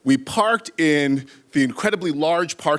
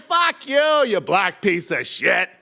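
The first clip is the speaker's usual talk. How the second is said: put-on drunk insult repeated; 3 semitones higher, slower than usual. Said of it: "I said".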